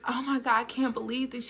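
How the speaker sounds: a hint of a disappointed mother. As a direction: mom reacting to the pregnancy, softly let down. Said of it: "she just kinda sounded disappointed".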